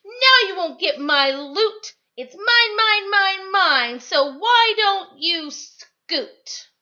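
high, loud gloating chant; Pig shouting. Acted. Pug gloats at Trevor over his loot, high and loud. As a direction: crow over the loot, slowing at the end. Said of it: "shouted Pig".

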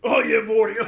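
lightly voiced frat boy doing Rick; drunk frat boy. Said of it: "You sound like a drunk frat boy".

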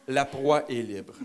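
slow, ominous delivery; slow menacing. Acted. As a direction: drag it out like a predator. Comic menacing narration.

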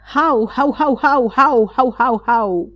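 high, frantic hał hał; terrified yelling. Acted. Mr Schulz yelling in terror at the hare, high and frantic. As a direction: bark in terror at the monster. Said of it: "zawołał w wielkiej trwodze".

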